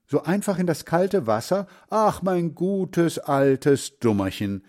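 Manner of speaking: tenderly exasperated grandmother; fond scolding. A narrator's reading.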